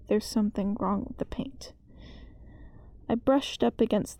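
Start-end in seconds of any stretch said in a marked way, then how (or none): 0.1-1.7 hushed, uneasy whisper. Acted. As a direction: breathe it like a secret you fear. Eerie confession about the walls.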